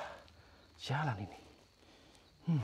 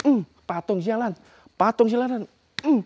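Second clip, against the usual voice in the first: taunting grunt; 8 semitones higher than usual. Real, not acted. Taunting the statue while slapping.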